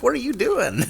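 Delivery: high-pitched mock wifely protest; imitated alarmed wife. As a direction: imitate a wife's startled question, half laughing. Quotes his wife seeing snake shot.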